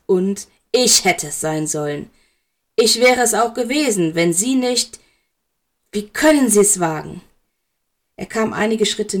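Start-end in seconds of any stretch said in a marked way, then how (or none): 0.0-7.2 indignant outburst. Acted. Severus confronts Dumbledore in quarrel.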